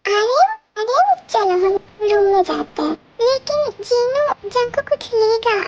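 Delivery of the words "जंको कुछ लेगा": whining tearfully for the toy; crying. Acted. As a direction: beg through tears like a small child. Child cries for the toy. (रोते हुए ज़िद करना)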